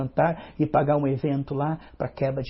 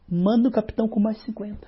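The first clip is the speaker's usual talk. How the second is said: a lightly voiced king giving orders, higher; higher commanding king; 5 semitones higher than usual. King sends more soldiers to Elijah, lightly voiced higher command. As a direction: bark the order like a proud king.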